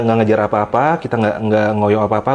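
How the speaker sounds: normal talking voice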